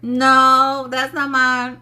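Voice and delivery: acted refusal. Refusing energy that isn't theirs, acted-out dismissal. Acts out refusing others' stuff.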